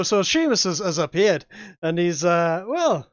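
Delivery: put-on slips into a Scottish accent; a Scottish lilt creeping in on an Irish attempt; GM's Irish attempt that comes out Scottish. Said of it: "You immediately sounded Scottish".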